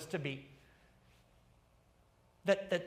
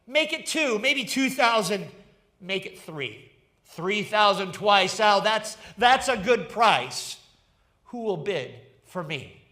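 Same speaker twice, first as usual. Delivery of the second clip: auctioneer crying out; 8 dB louder than usual. Acted. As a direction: rattle off the bids to the crowd. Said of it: "And the people cried out".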